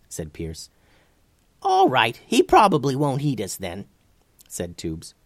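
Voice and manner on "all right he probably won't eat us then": very high, bright reassurance; high squeaky voice. Acted. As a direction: squeak it out lightly. Tubes reassures the boys.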